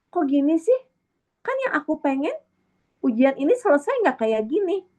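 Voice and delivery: high, whining protest to God; whiny complaint. Pretend. Speaker voicing a believer unhappy with God's ending, whining. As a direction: complain like a spoiled child.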